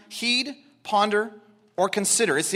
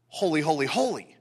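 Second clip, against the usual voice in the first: "holy" said three times, each set apart; triple emphasis; 7 semitones lower, 4 dB quieter than usual. Shown as a demonstration. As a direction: give every "holy" its own deliberate weight. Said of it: "See the triple emphasis?".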